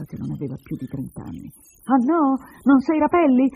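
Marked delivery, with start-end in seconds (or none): 1.9-3.5 high, loud incredulous questions; challenging. Acted. Woman rises to confront the man, challenging. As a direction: throw his denial back at him.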